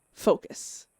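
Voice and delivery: grim, brooding inner monologue; dramatic journal reading. Acted. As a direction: read it like a haunted diary entry.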